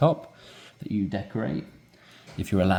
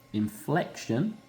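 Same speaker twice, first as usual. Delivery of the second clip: inflection drawn out slowly with a rising tune; 4 semitones higher, 5 dB quieter, slower than usual. Shown as a demonstration. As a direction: let inflection climb slowly. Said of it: "inflection when your tone rises".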